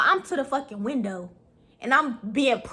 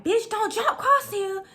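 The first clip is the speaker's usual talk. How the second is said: retold warning; 9 semitones higher than usual. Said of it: "jumping up like".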